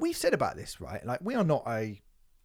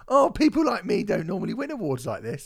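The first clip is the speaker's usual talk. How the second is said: mock humble winner. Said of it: "did the pop singer thing and went".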